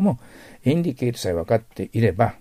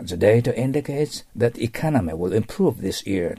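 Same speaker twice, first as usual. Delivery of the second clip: presentation line; slower than usual. Shown as a demonstration. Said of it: "スクリーンを指さしながら".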